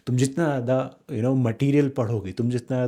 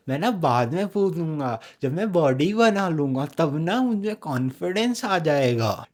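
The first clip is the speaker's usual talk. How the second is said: whiny excuse; 2 semitones higher than usual. Retold or imitated. Mocking an excuse-maker.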